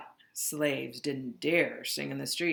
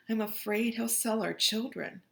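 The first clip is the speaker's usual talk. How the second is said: worried wife; 5 semitones higher than usual. Acted. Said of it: "she said".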